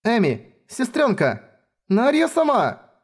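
high desperate shout, slow on the last name; calling out. Acted. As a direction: call out desperately for the sisters. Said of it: "затем закричала".

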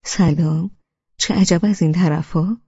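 hearty call across the room; loud greeting. Acted. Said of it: "با صدای بلند گفت".

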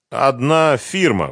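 slow, reluctant admission; cornered brother slowly squeezes out the answer; squeezed out. A narrator's reading. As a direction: force the words out unwillingly. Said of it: "выдавил Семён".

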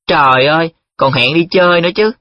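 high-pitched, excited outburst; excited exclamation. A narrator's reading. Nhiệm spotting a date in the letter, exclaiming. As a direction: cry out on a rising, lifted pitch. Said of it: "Nhiệm lại la lên".

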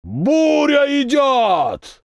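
very slow, high thundering roar; closer roar. A narrator's reading. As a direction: roar it close, full force. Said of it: "ещё громче и ближе".

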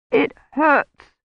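high, pained and scared; frightened. Acted. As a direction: whimper it in fear. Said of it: "eyes were wide with fright".

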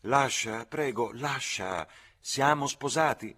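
high, loud, slow and sweet; sweet call. A narrator's reading. Lucy leans from the windowsill to the coachman, calling sweetly. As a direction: call down sweetly, drawing out the words. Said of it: "disse dolcemente".

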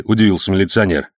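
ordinary delivery, nothing marked

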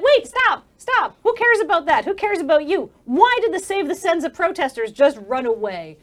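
high, loud, impatient demand; urgent interruption. Acted. GM voicing Franca cutting off the arguing men. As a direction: cut them off, demanding answers. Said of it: "Franca is like".

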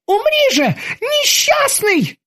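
very high slow robotic voice; robotic terminator. Acted. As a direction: declare like a cold machine. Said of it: "сказал терминатор".

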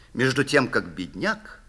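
ordinary delivery

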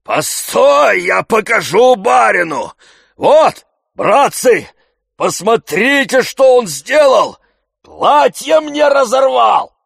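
very loud, high indignant yelling; outraged shout. Acted. Zakhar shouting to the servants, loud and outraged. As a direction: call the crowd to witness.

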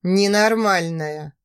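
slow, low muttered contempt; low looming threat. Acted. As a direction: spit it out slowly. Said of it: "процедил незнакомец".

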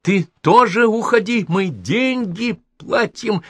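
high, loud yelling retort; shouting back. A narrator's reading. Angry tenant yells back at the host, shrieking. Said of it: "закричал в ответ Аби".

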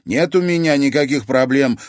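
put-on defiant teen snort; snorting dismissively. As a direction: brush her grandmother off. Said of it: "фыркнула Луиза".

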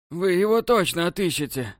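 высокий плачущий голос, с всхлипами; pleading sob. A narrator's reading. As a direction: beg through sobs, pitched high. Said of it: "Он старательно всхлипывал". (умоляющий всхлип)

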